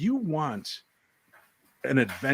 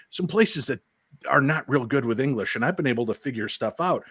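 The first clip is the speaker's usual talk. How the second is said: ordinary talk, nothing marked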